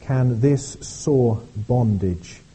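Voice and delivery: slow, solemn recital of verses; hymn reading. Acted. Pastor reading hymn verses to the congregation, slow and solemn. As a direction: read each line deliberately, like a hymn.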